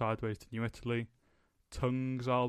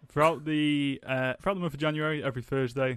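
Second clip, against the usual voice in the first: higher, louder excited presenter; excited host voice; 3 semitones higher, 6 dB louder than usual. Pretend. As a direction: pump it up like a TV host. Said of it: "There it is".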